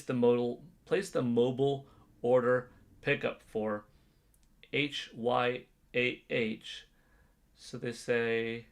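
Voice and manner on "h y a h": slow spelled out. Shown as a demonstration. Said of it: "How would I do the order?".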